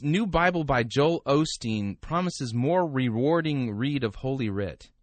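slow, emphatic headline reading. Acted. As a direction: announce it like a news headline. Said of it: "headline reads".

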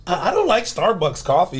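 lightly imitated proper Starbucks voice; mock proper. Co-host teasing her about Starbucks, mock proper voice. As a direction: put on a slightly prim, proper diction. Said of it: "got real proper".

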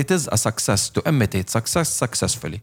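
slow, weighty reading of the saying; slow proverb delivery; slow deliberate quote. Retold or imitated. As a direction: spell the motto out slowly, word by word. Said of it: "دايمًا بيقول لك".

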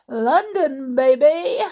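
put-on high, loud excited London baby; excited cheer. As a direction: cheer it like a fan.

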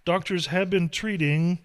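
steady newscaster reading; news read. Acted. Reads news segment.

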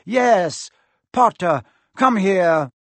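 commanding Quirrell. Acted. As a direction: summon the boy harshly.

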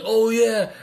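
high, loud gushing; mock delighted. Kids suddenly eager for the money, high gushing. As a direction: act suddenly thrilled. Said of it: "they're like".

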